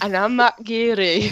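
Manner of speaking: Welsh lilt slipping into Scottish; a botched, vaguely Scottish accent; accidental Scottish accent. Acted. Signing off as Matt Geary, accent drifting Scottish. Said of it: "ended up Scottish towards the end".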